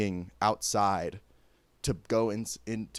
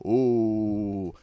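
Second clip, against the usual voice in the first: drawn-out mock-spooky "ooh"; teasing, overdone ooh; 4 dB louder than usual. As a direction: poke fun with a long, loud ooh. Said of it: "I'm mocking it".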